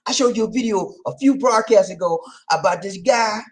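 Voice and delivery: whispered aside, no voice. Real, not acted. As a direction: breathe the words out unvoiced. Unvoiced repeat of line.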